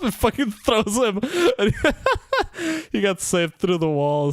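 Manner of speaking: high, laughing through words. Real, not acted. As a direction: tell it between laughs. Laughing while retelling scene.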